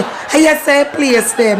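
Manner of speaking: mildly pleading request; polite request tone. Shown as a demonstration. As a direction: ask for the spot with a lifted voice. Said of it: "depending on the tone".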